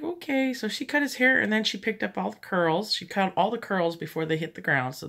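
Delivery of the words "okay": reluctant okay. Retold or imitated. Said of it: "She's like".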